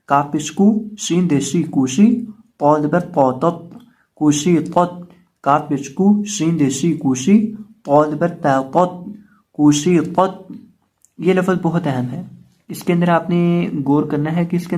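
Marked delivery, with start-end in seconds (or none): 0.1-10.5 spelling recitation drill. Shown as a demonstration. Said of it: "spelling drill".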